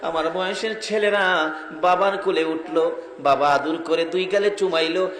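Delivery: half-sing it, drawing out the cries; melodic sermon storytelling. Acted. Orphan child telling his mother of fatherless longing, plaintive chanting.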